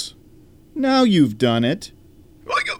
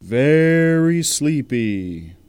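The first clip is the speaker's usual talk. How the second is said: mesmerizing; much slower than usual. Acted. Hypnotist drawl.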